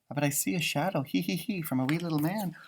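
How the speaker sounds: quiet, secretive storytelling; hushed. Acted. Teacher hushing kids about the shadowy leprechaun, quietly. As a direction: soften it like sharing a secret.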